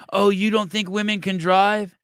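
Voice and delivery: hammed-up indignant woman at the car; mock shrill woman yelling. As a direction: imitate her squealing outrage. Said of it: "she yelled at the car".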